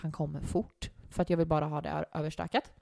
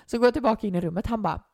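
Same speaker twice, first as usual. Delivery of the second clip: ordinary delivery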